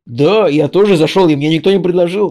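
voicing Joey. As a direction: drag it out like dim Joey. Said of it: "Джо такой говорит".

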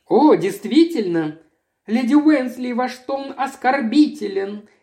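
a touch of teary hurt; near tears. A narrator's reading. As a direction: hold back tears while objecting. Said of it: "со слезами на глазах".

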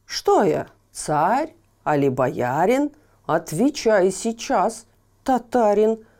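loud imperious tsar shouting at Ivan; angry tsar. Acted. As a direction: bellow it like an offended tsar. Tsar's outraged demand. (громкий гневный царь)

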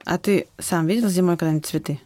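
ordinary delivery

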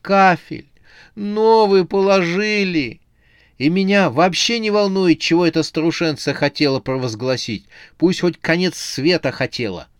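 high, loud outraged rant. A narrator's reading. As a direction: rant it in fury. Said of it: "возмутилась Оксана".

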